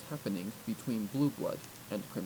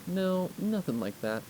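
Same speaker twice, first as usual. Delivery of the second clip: nervous denial; 7 semitones higher, 4 dB louder, slower than usual. Acted. Twilight denying flashbacks.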